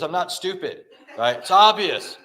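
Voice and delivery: don't treat me like a fool; retold indignant insistence.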